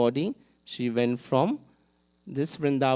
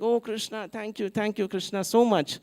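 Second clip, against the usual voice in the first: ecstatic thanks; 6 semitones higher than usual. Retold or imitated. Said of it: "She's like".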